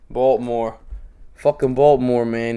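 put-on Baltimore accent. Comics trading hometown accents, Baltimore accent. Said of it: "that accent's hilarious".

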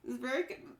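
tipsy, interrupted by a hiccup. Real, not acted. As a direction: get through it while hiccuping.

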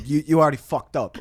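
loud, rough customer line; remembered customer yelling; angry customer quote. Retold or imitated. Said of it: "in my memory, he said".

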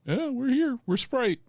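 high, chill mascot voice; laid-back brand voice. Acted. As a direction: shrug it off like a cool brand. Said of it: "and Sprite just is".

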